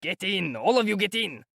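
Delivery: put-on high, hammered-up shout of a drunk carter; shouted order. A narrator's reading. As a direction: bellow at the crowd to pile in. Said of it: "Mikolka shouted".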